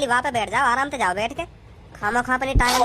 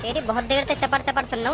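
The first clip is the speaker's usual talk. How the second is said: rough threat. Acted. Rough passenger threatening the man who offered the seat. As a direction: lean in and threaten him.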